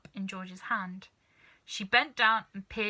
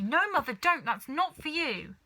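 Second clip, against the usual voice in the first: a higher, louder alarmed no; cried out; 6 semitones higher, 4 dB louder than usual. Acted. Missus Cranky stopping her mother from drinking, crying out. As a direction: cry out to stop her mother. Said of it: "cried Missus Cranky".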